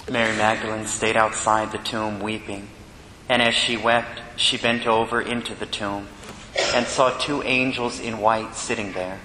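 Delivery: measured, solemn liturgical reading; gospel reading. Acted.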